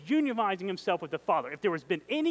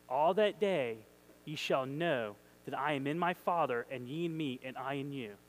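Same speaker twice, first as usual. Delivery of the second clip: reverent reread; 6 semitones lower, 5 dB quieter than usual. Shown as a demonstration. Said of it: "What a powerful verse".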